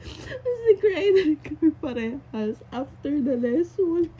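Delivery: crying through it; tearful. Real, not acted. Tears while recounting.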